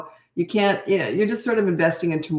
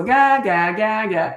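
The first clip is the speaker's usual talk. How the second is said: put-on baby babble; 3 semitones higher, 3 dB louder, slower than usual. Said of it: "she still likes to just go".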